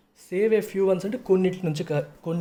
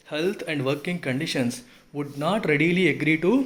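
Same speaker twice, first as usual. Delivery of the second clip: slow, emphatic read-out of a formal text; deliberate teacher reading aloud; article read-aloud; much slower than usual. Real, not acted. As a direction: read it phrase by phrase, slowly.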